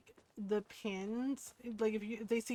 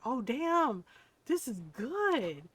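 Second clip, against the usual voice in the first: mock-amazed friend, stretched emphatic words; impressed; 4 semitones higher, 4 dB louder, slower than usual. Friends react to a first taste of pie, impressed. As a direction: savor it in retold amazement.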